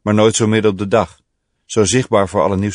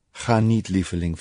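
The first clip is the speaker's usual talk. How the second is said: hushed, intimate plea, much softer; soft whisper; 6 dB quieter than usual. A narrator's reading. Woman pleading with her lover not to go, hushed whisper. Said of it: "fluisterde ze".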